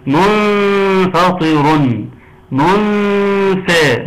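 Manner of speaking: "منفطر" chanted slowly, the n hummed long before f; ikhfa, hidden noon. Shown as a demonstration. Teacher quizzing students on the rule, slow ikhfa recitation of "منفطر". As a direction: hold a nasal hum on the noon of "منفطر". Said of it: "إخفاء".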